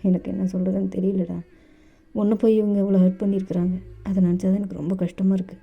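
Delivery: put-on calm older lover. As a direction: soothe him like a child who got hurt. Dev comforts JK gently.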